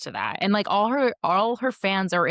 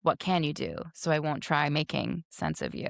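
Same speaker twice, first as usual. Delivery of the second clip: monotone; 3 semitones lower than usual. Shown as a demonstration. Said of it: "can you say the lyric again".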